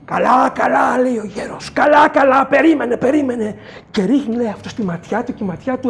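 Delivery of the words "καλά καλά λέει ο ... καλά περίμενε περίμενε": soothing calm-down. Acted. Creator calming the man.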